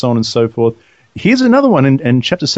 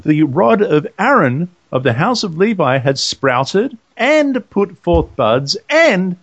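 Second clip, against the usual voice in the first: measured reading growing slower and more emphatic; scripture reading, building; 3 semitones higher than usual. Acted. Co-host reads out the budding rod miracle, slowing with emphasis.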